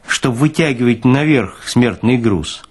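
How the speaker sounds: ordinary delivery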